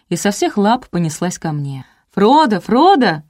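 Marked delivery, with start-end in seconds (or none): 2.1-3.2 громкий высокий зов, протяжно и медленно; позови собаку звонко, во весь голос; звонкий женский крик. A narrator's reading. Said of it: "закричал звонкий женский голос". (звонко кричит собаке, протяжно)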